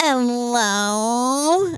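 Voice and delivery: mock snide, mean, drawn-out condescending tone. Retelling what a woman in the crowd said: imitating a condescending, mean hello. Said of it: "in, like, a condescending, mean way".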